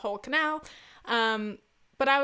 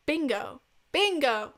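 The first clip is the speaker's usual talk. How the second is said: building from normal to a loud, higher shout; calling out bingo; 4 semitones higher, 4 dB louder, slower than usual. Shown as a demonstration. Podcaster practising her bingo call so she's heard, rising to a shout. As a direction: rehearse calling it out, louder each time. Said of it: "you wanna be loud enough to be heard".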